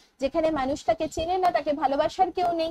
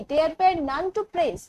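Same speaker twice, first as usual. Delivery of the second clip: drawn out slowly; slow poem recitation; much slower than usual. Shown as a demonstration. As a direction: read the phrase as verse.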